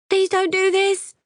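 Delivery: very high, slow, loud tearful begging; high slow sobbing plea. Acted. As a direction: sob the words out slowly. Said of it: "She's sobbing now, pleading".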